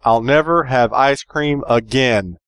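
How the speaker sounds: slow, solemn vow; dramatic declaration. Shown as a demonstration. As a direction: say it like a grand oath. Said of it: "you have to say it like that with two exclamation points".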